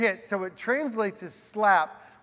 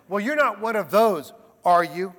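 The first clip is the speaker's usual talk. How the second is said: presumptive question; 6 dB louder than usual. Retold or imitated. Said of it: "there's a presumptive question".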